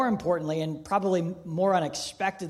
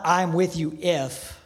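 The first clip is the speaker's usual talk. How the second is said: conditional; 4 dB louder, slower than usual. Shown as a demonstration. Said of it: "It's not".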